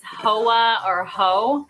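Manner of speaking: neat, careful "hoa or ho"; preppy, tidy word-list reading. Real, not acted. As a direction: say "hoa or ho" too properly, like a preppy. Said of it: "I sounded so preppy when I said it".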